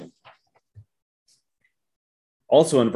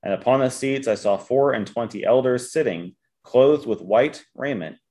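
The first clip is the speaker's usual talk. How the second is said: measured, emphatic Bible reading; formal reading with weighted key words; scripture reading. Acted. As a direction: read it out firmly to a congregation. Reads scripture aloud.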